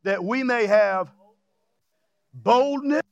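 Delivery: measured scripture reading; deliberate reading building to the last word; slow reading. Shown as a demonstration. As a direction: read it slowly, phrase by phrase. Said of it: "I want you to read it slow".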